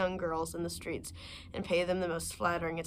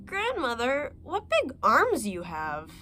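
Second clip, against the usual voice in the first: put-on wondering little girl; 4 semitones higher, slower than usual. Girl's wondering question.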